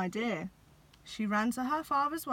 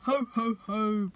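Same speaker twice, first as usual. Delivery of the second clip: louder booming ho ho ho; bellowed; 7 dB louder than usual. A narrator's reading. Santa being tickled on the feet, a loud bellow. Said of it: "bellowed Santa".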